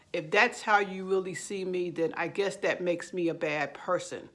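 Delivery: understated sarcasm, acted non-apology; mildly sarcastic mock concession. Narcissist giving a fake apology to their partner, mildly sarcastic. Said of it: "They're actually saying it sarcastically".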